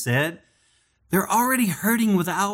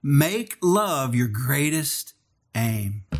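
slow reading; much slower than usual. Shown as a demonstration. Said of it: "I love this".

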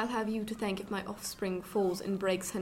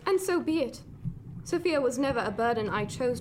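defiant outburst; 3 semitones higher, 3 dB louder than usual. Acted. Heated quarrel with Robert.

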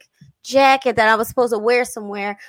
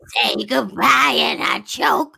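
raspy impression of a singer; mock singing in a singer's style; imitating a singer; 3 semitones lower than usual. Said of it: "singing voice".

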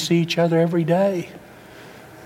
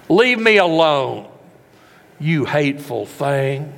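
louder, slow, cold dismissal; mock harsh rejection; 3 dB louder, slower than usual. Father turning on his older son, mock harsh. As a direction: push the son away with contempt.

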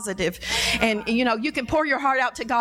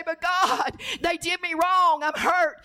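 whining; 5 semitones higher, slower than usual. Retold or imitated. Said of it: "our whining".

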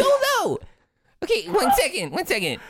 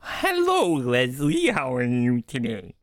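character voice; 3 semitones lower, slower than usual. Acted. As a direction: lift the greeting, slow the question. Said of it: "that seemed closer".

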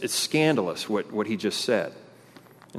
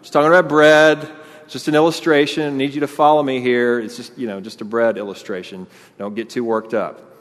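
casual, placating reassurance; a hint of a backpedaling Jesus; softened Jesus; 4 dB louder than usual. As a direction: talk them down breezily, laughing it off. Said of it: "tone down the language a bit and say".

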